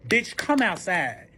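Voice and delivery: slow, stretched-out call; retold demand at the door; calling someone out. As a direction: drag each word out, demanding they come out. Beating on his door, calling out.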